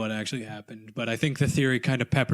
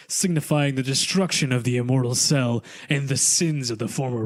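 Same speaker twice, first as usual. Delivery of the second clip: storytime voice. Acted. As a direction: read it like a bedtime tale. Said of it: "Zach's storytime voice".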